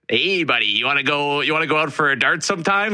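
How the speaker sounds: put-on Canadian hockey accent, lightly done. Mild Canadian hockey accent for the host's co-host. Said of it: "Like, that kinda accent".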